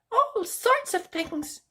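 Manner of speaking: very high, slow, teasing bird voice; mysterious bird. Acted. Sylvia answering Rapunzel mysteriously, high and slow. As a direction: keep the secret, slow and sly. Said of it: "replied Sylvia mysteriously".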